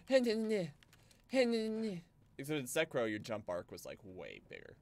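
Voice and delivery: a bit out of breath; breathy, winded delivery. Real, not acted. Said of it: "I'm a little winded".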